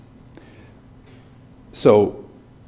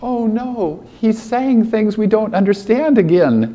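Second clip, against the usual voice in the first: higher, dismayed disciple; quoting in character; 5 semitones higher than usual. Retold or imitated. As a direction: groan it as a puzzled disciple. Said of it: "imagine Peter's face".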